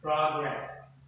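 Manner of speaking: "Progress" stressed on the first syllable. Shown as a demonstration. Teacher modelling the first rule for class, first-syllable stress. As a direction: lean on PRO in "Progress". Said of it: "this stress is on the what? First syllable".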